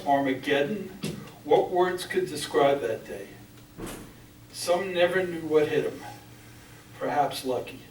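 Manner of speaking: measured, solemn poetry recital; grave spoken verse, firmly projected; poem reading. Acted. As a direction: read it out in deliberate phrases, pausing after each. Reads own poem aloud.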